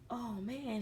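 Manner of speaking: mock amazement. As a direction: imitate a man pleasantly taken aback. Visitor reacts to supposed grandbaby.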